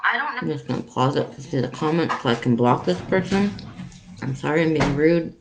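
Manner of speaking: talking with a full mouth; chewing between words; cheeks stuffed full. Real, not acted. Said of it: "talking with my mouth full".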